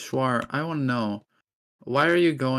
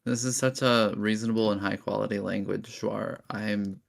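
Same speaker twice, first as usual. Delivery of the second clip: dry mock praise, delivered evenly; understated sarcasm, as if sincerely proud; sarcastic. Real, not acted. Praising the language to its maker, sarcastic. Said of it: "hear the sarcasm in your voice".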